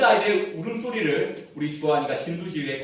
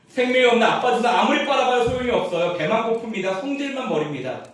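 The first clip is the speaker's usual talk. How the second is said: preaching force; 7 semitones higher, 4 dB louder than usual. Acted. Preaching climax.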